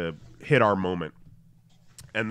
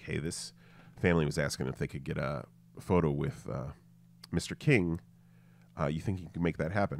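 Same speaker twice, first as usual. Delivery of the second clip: softer aside, barely voiced; retold whisper; 7 semitones lower, 8 dB quieter than usual. Asking security for a photo: quiet aside. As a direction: lean in and murmur. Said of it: "I whisper in his ear".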